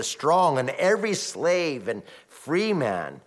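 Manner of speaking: solemn, measured scripture reading. Acted. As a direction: read the holy word with gravity. Reads scripture aloud.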